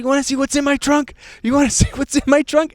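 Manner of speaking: put-on high, loud drunken taunt; indignant challenge. Drunk friend challenging police about the trunk, indignant shouting. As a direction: throw it at them in mock outrage.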